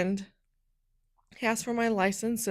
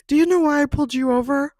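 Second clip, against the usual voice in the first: stern officer question; 6 semitones higher, 9 dB louder than usual. Retold or imitated. Officer questions her at window.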